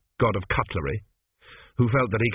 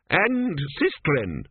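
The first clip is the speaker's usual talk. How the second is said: amended proclamation; 4 semitones higher, much slower than usual. A narrator's reading. Speaker grudgingly amends his address.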